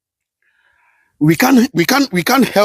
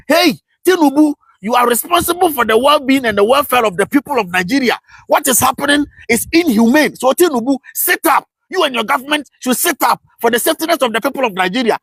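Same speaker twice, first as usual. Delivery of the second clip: stern scolding; 3 semitones higher than usual. Retold or imitated. Voicing the African Union scolding Tinubu.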